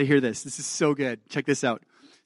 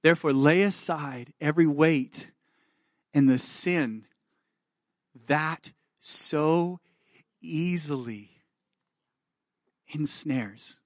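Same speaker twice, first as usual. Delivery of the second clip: tender reading; slower than usual. Acted. Slow tender reading of grace verse.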